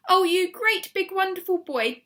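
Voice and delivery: high, loud gushing praise; shower the pet with love; doting delight. A narrator's reading. Missus Silver praising her tortoise, doting delight. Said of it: "she cried, stroking the tortoise".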